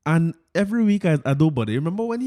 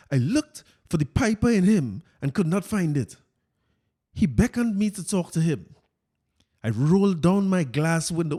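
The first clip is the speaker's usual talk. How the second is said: Fitz voice; 2 semitones higher than usual. Retold or imitated. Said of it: "let me get my Fitz voice here".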